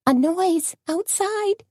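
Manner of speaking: high, hurried, frightened; spooked, wanting to flee now; scared and urgent. A narrator's reading. Tony frightened.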